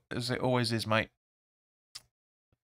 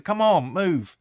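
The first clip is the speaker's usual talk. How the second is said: imitating the manager's yell; 4 semitones higher, 4 dB louder than usual. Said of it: "And he's like".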